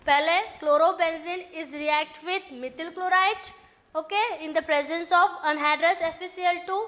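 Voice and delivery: slow, word-by-word note dictation. Shown as a demonstration. Teacher dictating notes to the class, slow and deliberate. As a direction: spell it out slowly so students can write.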